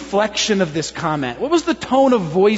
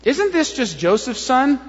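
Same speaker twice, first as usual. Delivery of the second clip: slow, higher-pitched sceptical question; doubt; 5 semitones higher than usual. Shown as a demonstration. Crowd asking about the carpenter's son, doubtful. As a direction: draw the question out in disbelief. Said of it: "If it was a doubt statement".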